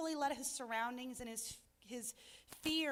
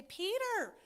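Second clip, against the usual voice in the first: frustrated plea to Peter; 2 semitones higher than usual. Retold or imitated. Preacher wishing to tell Peter off, frustrated. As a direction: scold Peter like a friend you can't believe. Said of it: "I am so frustrated sometimes".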